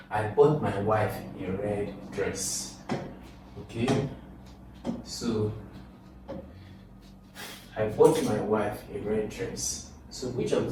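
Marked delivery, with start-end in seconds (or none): 0.1-2.8 slow reading, leaning on "wife"; stress on WIFE. Shown as a demonstration. Teacher reading the exam sentence to students, stress on WIFE. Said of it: "the emphasis is on wife". 7.8-9.9 slowly read, weight on "wife"; stress on WIFE. Shown as a demonstration. Teacher repeating the test sentence, stress on WIFE. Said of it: "the emphasis is on wife".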